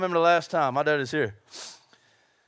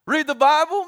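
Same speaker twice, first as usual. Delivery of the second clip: mock indignant; 7 semitones higher, 6 dB louder than usual. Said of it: "excuse voice".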